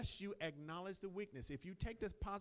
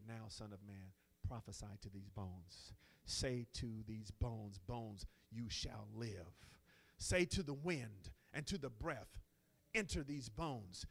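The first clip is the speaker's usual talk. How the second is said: slow voice of God; 8 semitones lower, slower than usual. Retold or imitated. God's command to Ezekiel, slow.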